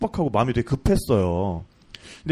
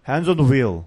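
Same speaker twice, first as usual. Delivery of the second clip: low, measured police order; mildly voiced cop giving an order; officer's command; 4 semitones lower, much slower than usual. (차분하게 명령하는 경찰 말투)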